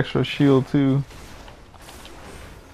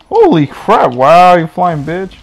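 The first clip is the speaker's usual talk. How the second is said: loud, exasperated shout at the screen; frustrated outburst; 6 dB louder, slower than usual. Real, not acted. Gamer cursing at a flying enemy, loud exasperated shout. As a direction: blurt it out, fed up with the game.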